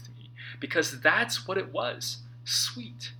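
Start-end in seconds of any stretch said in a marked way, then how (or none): 2.4-3.1 breathy whispered "sweet". Shown as a demonstration. Author echoing the inner voice, whispering "sweet". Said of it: "voice whispering sweet somethings".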